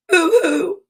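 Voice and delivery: high, fake boo-hoo; mock baby cry. Storyteller reading how a baby cries, mock boo-hoo. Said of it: "A baby cries".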